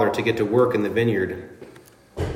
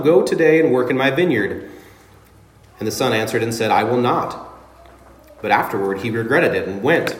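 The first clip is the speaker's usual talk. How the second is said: scripture reading. Acted. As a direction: read the parable aloud to the congregation, steady and formal. Reads scripture passage aloud.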